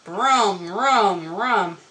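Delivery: three swooping engine revs; voiced motor noise, rising and falling; imitated chainsaw revving. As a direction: rev it up like a chainsaw.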